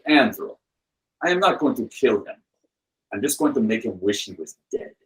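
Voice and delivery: deliberate mock Russian menace; Russian accent. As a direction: mimic the Russian friend delivering a punchline. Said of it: "that same Russian friend".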